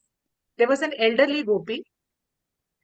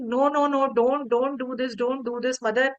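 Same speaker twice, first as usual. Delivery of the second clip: put-on pleading child Krishna. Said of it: "he kept on requesting".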